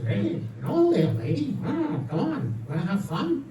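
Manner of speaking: a hint of parrot, come-on to a passerby; flirty parrot. Parrot outside pet store to woman, flirty. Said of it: "the parrot says".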